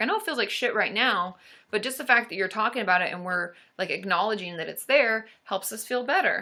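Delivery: normal talking voice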